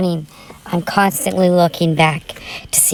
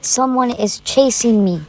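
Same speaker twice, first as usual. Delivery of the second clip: higher, urgent call for help; yelling for help; 5 semitones higher than usual. Retold or imitated. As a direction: shout to the stranger that someone is chasing her. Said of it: "I yell".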